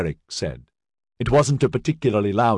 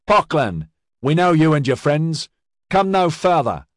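loud, higher stern command; stern warning; 8 semitones higher, 4 dB louder than usual. A narrator's reading. Sergeant warning the gang leader, loud and stern. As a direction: halt them with authority.

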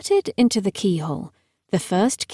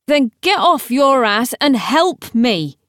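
higher, mildly irritated order; impatient demand; 4 semitones higher, 4 dB louder than usual. Acted. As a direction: demand help, fed up. Gideon demands help with hatch.

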